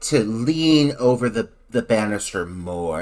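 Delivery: slow, low, coaxing director voice; a hint of a sleazy director, slow and low; lightly voiced director. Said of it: "was like".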